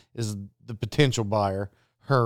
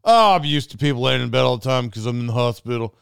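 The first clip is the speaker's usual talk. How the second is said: mocking the buyer; 2 semitones lower, 4 dB louder than usual. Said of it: "he's acting like he's".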